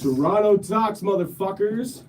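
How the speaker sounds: Ric Flair style hype. Pretend. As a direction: bellow it like a wrestler on the mic. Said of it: "You went Ric Flair on us".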